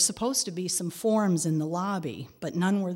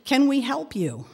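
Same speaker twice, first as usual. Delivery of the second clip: clerk voice; 8 semitones higher, 6 dB louder than usual. Retold or imitated. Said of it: "a voice said".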